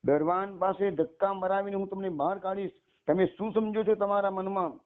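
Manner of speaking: an enraged lady of the house threatening a monk; burning anger. Acted. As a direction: threaten him in a fury. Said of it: "એકદમ ગુસ્સામાં સળગી ગયા".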